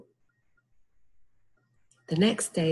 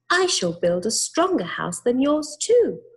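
high, bright little pig; squeaky little pig voice; third pig voice; 7 semitones higher, 4 dB louder than usual. A narrator's reading. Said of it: "said the third pig".

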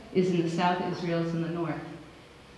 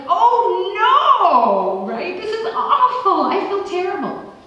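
high, loud, laughing mock dismay; mock despair; 12 semitones higher, 8 dB louder, slower than usual. Preacher paraphrasing Isaiah, laughing mock dismay. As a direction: ham up the horror with a laugh. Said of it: "But like".

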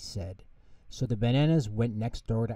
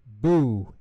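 a louder mock-scary "Boo"; playful yell; 6 dB louder than usual. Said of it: "yelled Morgan".

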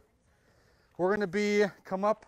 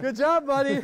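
squeaky praising a dog; 7 semitones higher, 6 dB louder than usual. Real, not acted. Praising a child after race.

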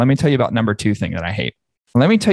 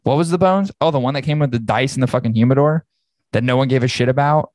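mock confused listener; 3 semitones higher, faster than usual. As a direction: play a baffled cigar smoker. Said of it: "Most people are like".

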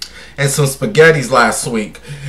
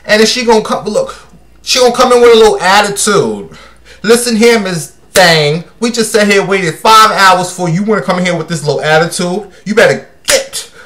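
higher-pitched indignant telling-off; mock scolding; 4 semitones higher than usual. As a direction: scold the late diva, hammed up. Mock scolding of a late star.

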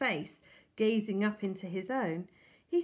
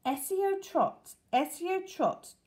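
slow, higher incantation; reading a spell; 4 semitones higher, slower than usual. A narrator's reading. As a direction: chant it like a magic spell, slowly.

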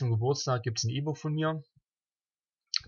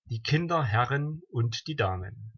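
measured rhymed-verse recital, pausing between couplets; deliberate, evenly metred delivery of comic verse; poem recitation; slower than usual. Acted. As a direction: recite a celebratory party poem line by line.

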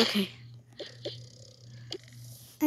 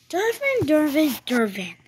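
calling out; 4 semitones higher, 3 dB louder than usual. Pretend. Calling child to come.

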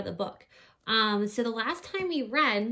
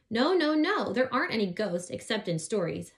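nervous squeak. Acted. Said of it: "I squeaked".

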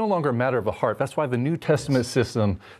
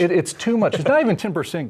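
emphatic; 5 semitones higher, 5 dB louder than usual. Real, not acted. Emphatic correction to audience.

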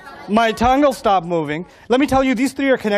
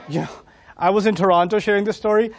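usual speaking voice

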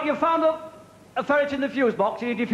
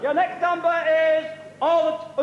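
bingo caller; 4 semitones higher than usual. Acted. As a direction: sing out the numbers to a hall of players. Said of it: "bingo caller this evening".

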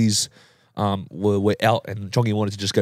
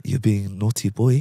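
low, soft mock reprimand; quietly chide, imitating a calm friend; softly voiced telling-off of a naughty boy; calm, soft scolding; 3 semitones lower, slower than usual. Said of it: "still just doing the calm".

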